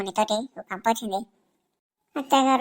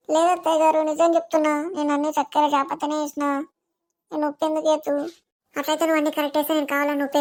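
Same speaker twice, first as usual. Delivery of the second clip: pleading protest; 4 semitones higher than usual. Acted. Wife protests to mother-in-law.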